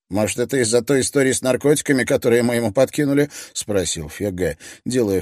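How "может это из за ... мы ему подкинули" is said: fast, high innocent-sounding question; feigned innocence. Acted. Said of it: "чтобы его голос звучал невинно".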